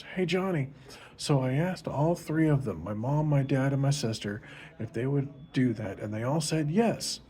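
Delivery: put-on Susie, a little girl, excitedly tells Johnny; eager little girl. Susie reports back to Johnny.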